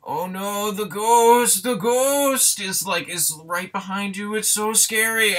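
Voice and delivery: high, hammed-up panicky wail; mock scared kid. Reviewer mimicking the kid warning about the ghost, mock terrified. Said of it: "the kid over here is like".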